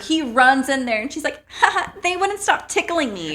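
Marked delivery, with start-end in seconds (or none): 1.6-3.3 high-pitched playful giggle voice; mock-giggly, much higher voice; giggling girl impression. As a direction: imitate a tickled little girl. Voicing the tickled, giggling girl.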